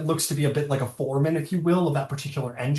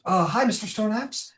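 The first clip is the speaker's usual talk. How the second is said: put-on shy girl voice; 7 semitones higher than usual. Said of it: "she goes".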